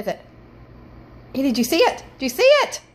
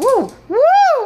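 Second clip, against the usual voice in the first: loud startled whoa; 11 semitones higher, 8 dB louder than usual. Real, not acted. Light floats past again.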